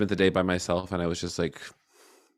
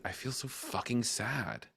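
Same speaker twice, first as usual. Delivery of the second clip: very soft, higher, sad confession; retold sadness; 4 semitones higher, 10 dB quieter, slower than usual. Letting herself have this moment, soft sad admission. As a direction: let the sadness out under your breath.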